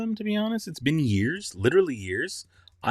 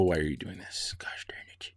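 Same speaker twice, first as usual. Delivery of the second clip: 1 muttered curse; 7 semitones lower, 12 dB quieter than usual. Real, not acted. Frustrated muttering at screen.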